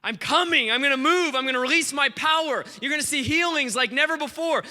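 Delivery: emphatic preacher's proclamation; declaring God's promise. Retold or imitated. Preacher voicing God's promise to the nation, declaring.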